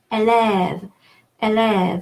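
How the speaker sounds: élève with the second vowel held longer; long open vowel. Shown as a demonstration. French teacher demonstrating the stressed vowel, drawn out. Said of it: "it's longer".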